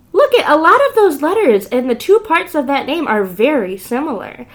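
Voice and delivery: ordinary delivery, nothing marked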